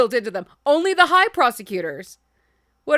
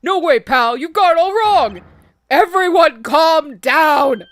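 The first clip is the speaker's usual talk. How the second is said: shouting detective; 3 semitones higher, 6 dB louder, slower than usual. Acted. Voicing Gumshoe.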